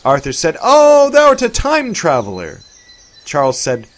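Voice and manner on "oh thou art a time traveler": high, loud surprised exclaim; light up with discovery; sudden realization. A narrator's reading. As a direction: Arthur realizing Charles time travels, surprised.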